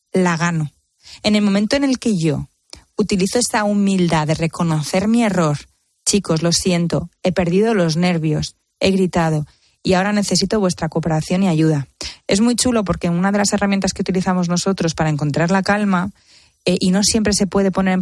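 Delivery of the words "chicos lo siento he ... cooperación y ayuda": a mother owning up calmly; calm apology. Shown as a demonstration.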